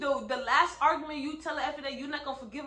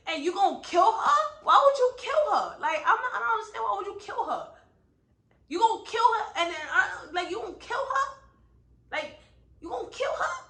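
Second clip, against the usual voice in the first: much higher, half-laughing outraged questions; mad disbelief; 6 semitones higher, 4 dB louder than usual. Real, not acted. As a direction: laugh through the outrage at the author. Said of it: "y'all can see I'm mad".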